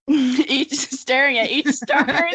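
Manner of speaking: high, loud, laughing emphasis. Real, not acted. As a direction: crack up over each star. Laughing at the wording.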